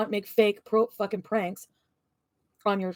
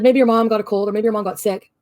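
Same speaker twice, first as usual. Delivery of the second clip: loud, heated retelling of her own outburst; retold yelling; 2 semitones higher, 8 dB louder than usual. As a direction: shout it like you did back then in the fight. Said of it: "I said".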